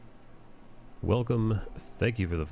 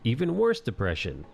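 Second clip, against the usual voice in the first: higher, put-on drug-commercial voice; mock ad disclaimer; 6 semitones higher than usual. Parodying a late-night drug commercial's side-effect list. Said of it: "they list the side effects".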